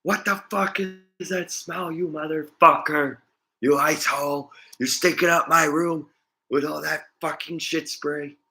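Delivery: high, loud hammed-up old-lady rage; mock furious grandma. Grandma yelling at grandson over poop spray, high loud mock fury. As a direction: screech it like an outraged grandma. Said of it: "And she's like".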